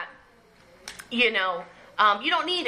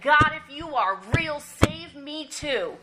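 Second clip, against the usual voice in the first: mocking; 3 semitones higher, slower than usual. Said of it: "And I mocked him".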